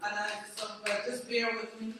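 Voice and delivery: worn voice after a loud homecoming week. Real, not acted. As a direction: voice tired from cheering all week. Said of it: "So I have a little homecoming voice".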